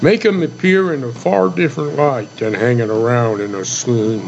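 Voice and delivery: measured poem reading; cowboy poem recitation. Acted.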